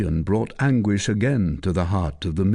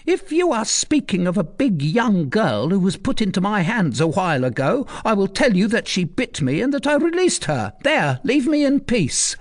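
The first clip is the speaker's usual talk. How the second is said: much higher, gruff and grumbling; sincere and surly; 11 semitones higher than usual. Acted. Recluse brushing off the commander, surly. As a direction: shoo them off, sounding honest. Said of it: "in a sincere and surly tone".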